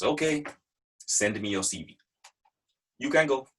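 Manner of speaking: brief replies in an imitated French accent. Boss answering after hearing Leon wants out, French accent. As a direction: dismiss him as the French boss. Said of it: "I'm gonna try and do a French accent now".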